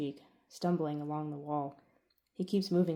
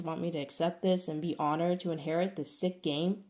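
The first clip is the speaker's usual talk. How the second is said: louder, bitter accusation; angry outburst; 4 dB louder than usual. Acted. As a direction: throw every grievance at your father. Son confronts father.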